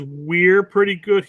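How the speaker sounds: slow, mock-proud pretty good; mocking Derek quote. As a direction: drag out pretty good, teasing. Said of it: "when Derek says".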